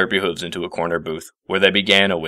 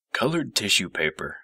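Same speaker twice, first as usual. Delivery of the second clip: muttered; 6 dB quieter than usual. Acted. Professor muttering notes to himself at the party, softly. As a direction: mutter it to yourself, under the breath. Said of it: "he muttered".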